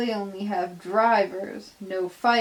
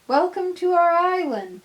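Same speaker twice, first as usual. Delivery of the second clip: cheerful welcome; 9 semitones higher, 5 dB louder than usual. Acted. Greeting the new engine.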